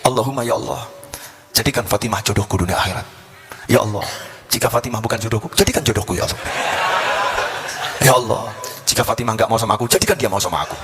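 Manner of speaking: low-pitched prayer, played for laughs; acted petition prayer. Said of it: "Bunyi doanya, asyik betul".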